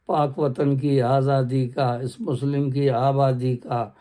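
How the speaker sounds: slow, measured poem recital; stately nazm recitation. Acted. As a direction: recite each line slowly and with weight. Repeats the nazm opening. (باوقار انداز میں آہستہ نظم خوانی)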